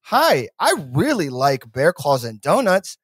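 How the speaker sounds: lightly mocked stilted politician, drawn out; slow, over-deliberate small talk; politician impression. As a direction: recite it slowly like someone imitating a human. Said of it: "he's like".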